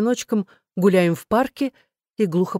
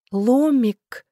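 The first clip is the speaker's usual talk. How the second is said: higher, drawn-out sweet pet name; affectionate; 6 semitones higher than usual. A narrator's reading. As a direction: coax gently with a lilting voice. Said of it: "ласково сказала я". (ласково, нараспев)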